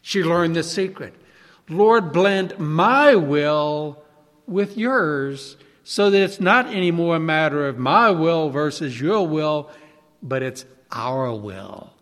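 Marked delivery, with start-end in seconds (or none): 1.7-11.9 very slow, lower, softening prayer; hushed surrender. Retold or imitated. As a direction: pray it slowly, letting go.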